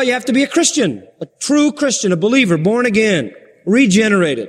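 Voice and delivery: emphatic preaching. Acted. Preacher answering who can understand the Bible, emphatic preaching.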